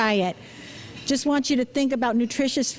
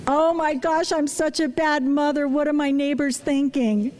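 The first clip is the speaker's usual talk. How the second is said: mock panicked thought; 2 semitones higher than usual. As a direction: replay the guilty inner panic, lightly. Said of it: "what's going through my head".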